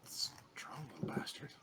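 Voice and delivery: whispered under the breath; whispered aside. Real, not acted. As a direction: hush it to yourself. Muttered aside after being hit.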